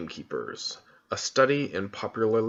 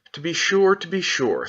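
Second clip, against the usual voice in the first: higher, louder fussy faun; a faun hurriedly covering his mistake; a higher, fluttery faun repeating himself; flustered faun; 7 semitones higher, 4 dB louder than usual. Acted. Fawn flustered.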